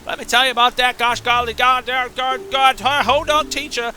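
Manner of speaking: put-on high, rambling southern-accented fish; put-on high, emphatic drawling fish voice; fish character voice. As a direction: rant like a riled-up southern fish. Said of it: "do the voice of the fish there".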